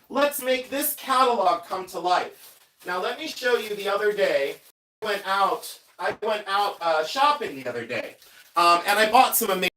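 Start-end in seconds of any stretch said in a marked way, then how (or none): 0.1-2.6 soft, high, secretive voice; hushed. Acted. Hushed setup before the reveal. 2.8-8.1 soft, high, secretive voice; hushed. Acted. Continues the soft reveal voice.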